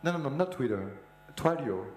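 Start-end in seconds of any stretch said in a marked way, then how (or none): 1.4-1.9 Twilio as "Twai-lio", higher, French accent; French-accented Twilio, opening on "twa" or "twy". Real, not acted. Correcting the mishearing as Twitter, in a French accent. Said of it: "my terrible French accent".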